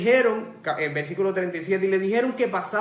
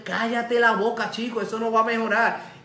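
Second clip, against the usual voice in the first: scolding; 4 semitones higher than usual. Retold or imitated. Crowd rebukes the blind man.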